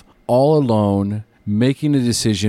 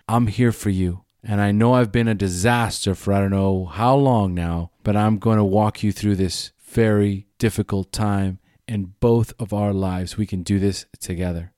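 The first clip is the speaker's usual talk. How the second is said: reassuring. Retold or imitated. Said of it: "and say".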